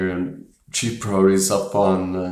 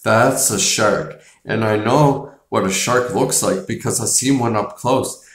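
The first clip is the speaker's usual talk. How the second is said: imitating a heated sheriff, a bit louder; mild mock outrage at the council, a touch louder; heated warning; 3 semitones higher, 4 dB louder than usual. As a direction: pound the table and warn the council. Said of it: "He's like".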